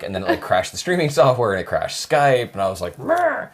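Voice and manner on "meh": high, strangled "Meh"; mimicking a glitch. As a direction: imitate the frozen program, high-pitched. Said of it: "That's how he was".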